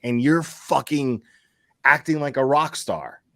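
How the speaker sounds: fed up, mildly angry retelling; retold exasperation. Host retelling how he scolded Michael, mad but contained. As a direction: chew him out with some restraint. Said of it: "that made me mad".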